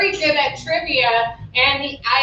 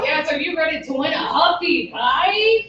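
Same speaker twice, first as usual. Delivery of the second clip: game show host. Pretend. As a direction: sell the prize like a TV host. Game show host prize pitch.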